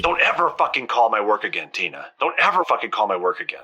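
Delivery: soft, fast, threatening; hushed warning. Acted. Penny warning Tina never to call her work, hushed threat. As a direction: warn her under your breath.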